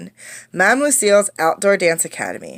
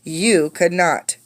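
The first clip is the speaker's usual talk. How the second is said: sighing; slower than usual. Acted. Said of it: "with a sigh".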